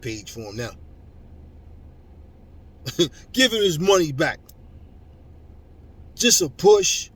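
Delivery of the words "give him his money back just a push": loud, higher mock shout; mocking yell. Real, not acted. Vlogger loudly mocks fans demanding a refund. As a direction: throw it at them in ridicule.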